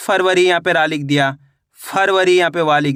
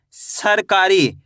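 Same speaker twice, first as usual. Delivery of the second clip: सरकारी drawn out slowly, सर then कारी; slow sounding-out; much slower than usual. Shown as a demonstration. Teacher sounding out a word for spelling, slow and stretched. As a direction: stretch each part of सरकारी so every sound is heard. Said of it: "शब्द का उच्चारण सुनना है".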